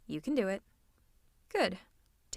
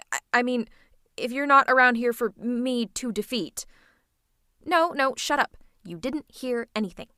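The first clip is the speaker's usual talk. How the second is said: louder, stammering correction; flustered backtracking; 6 dB louder than usual. Acted. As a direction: cover the slip with too much force. Flustered after letting feelings slip.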